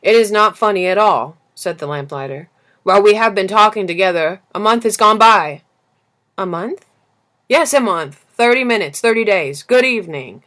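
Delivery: a loud, exasperated lamplighter. Acted. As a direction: correct the child with tired insistence. Lamplighter insists.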